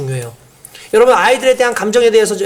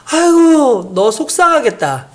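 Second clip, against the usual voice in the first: sympathetic mother; 2 semitones higher, much slower than usual. Shown as a demonstration. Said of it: "아이의 감정을 짚어준 거예요".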